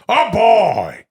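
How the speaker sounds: big drawn-out actor impression; De Niro doing Al Pacino. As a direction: belt out the catchphrase as a hammy impression. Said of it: "my friend Al Pacino goes".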